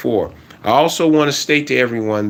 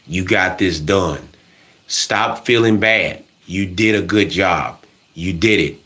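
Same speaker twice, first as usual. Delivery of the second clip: encouraging self-talk; 6 semitones lower than usual. Shown as a demonstration. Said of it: "You see what I'm doing?".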